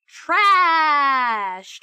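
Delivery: loud, drawn-out wail of disgust; disgusted cry. Real, not acted. Streamer to chat, seeing the bad stats, crying out in disgust. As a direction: cry the word out in disbelief.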